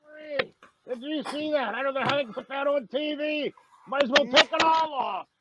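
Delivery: grumbling hillbilly watching TV; lightly voiced redneck complaining. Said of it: "one of my favorite characters".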